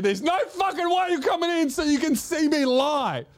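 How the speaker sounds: high-pitched defiant retort; indignant refusal. Retold or imitated. Patient shutting the nurse out, high indignant refusal.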